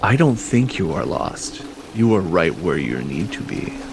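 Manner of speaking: menacing, threatening voice through a mask. Voicing a masked stranger answering a lost adventurer, menacing masked stranger. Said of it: "chuckles menacingly through the mask".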